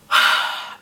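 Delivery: heavy, breathy sigh; exasperated sigh. Retold or imitated. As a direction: let out a worn-out sigh. Exasperated before yelling at son.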